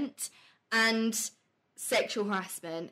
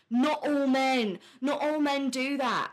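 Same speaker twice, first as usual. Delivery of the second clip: slow, louder, mocking "Not all men"; 3 semitones higher, 4 dB louder than usual. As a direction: drag out "Not all men" like a whiny protester. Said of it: "it became an issue of, like".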